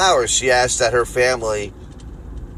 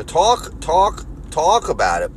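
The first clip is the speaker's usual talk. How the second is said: Philly accent; 4 semitones higher, slower than usual. Shown as a demonstration. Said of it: "that weird Philly accent".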